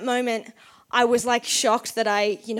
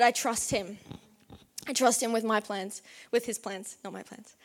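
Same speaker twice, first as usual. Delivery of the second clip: quiet declaration of trust; 7 dB quieter than usual. Retold or imitated. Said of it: "and said".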